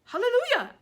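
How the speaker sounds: high, loud joyous shout; rapturous aunt shout. Acted. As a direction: cheer it to the sky. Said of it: "Aunt Spiker shouted".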